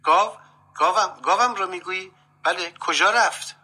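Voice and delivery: high, startled, flustered questioning. A narrator's reading. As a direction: blurt it out, caught off guard and rattled. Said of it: "دست پاچه شد و گفت".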